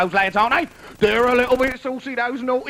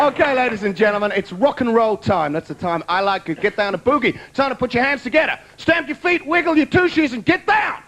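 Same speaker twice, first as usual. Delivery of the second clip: showbiz host building up to the band; host announcement. Acted. Host calling the audience to welcome the band, rising showbiz build. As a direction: get the crowd moving, big finish.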